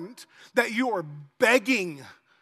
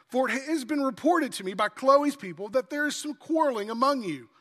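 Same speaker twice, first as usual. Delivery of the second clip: slightly raised, measured reading voice; scripture reading. Acted. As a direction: read the Bible passage to the church with weight. Reads scripture aloud to congregation.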